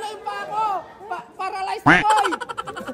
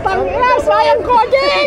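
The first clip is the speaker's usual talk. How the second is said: higher loud call-out; shouting; 8 semitones higher, 5 dB louder, slower than usual. Real, not acted. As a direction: shout the name. Calling out on ride.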